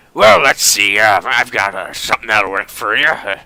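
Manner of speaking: hammed-up old German tinkerer introducing himself; gruff well-meaning German. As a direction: put on a gruff, accented old man. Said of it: "He speaks with a gruff but well-meaning tone".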